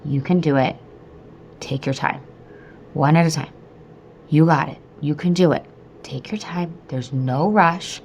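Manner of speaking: steady, reassuring self-talk with pauses; calm repeated mantra; self-soothing mantra. Retold or imitated. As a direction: coach yourself gently, one phrase at a time. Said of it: "repeating this to myself".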